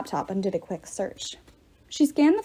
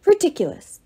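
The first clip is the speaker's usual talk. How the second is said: louder and higher, scornful; yelled; 8 semitones higher, 5 dB louder than usual. A narrator's reading. Pater yells at Annabeth, scornful. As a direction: spit it out as a yell. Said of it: "the pater yelled".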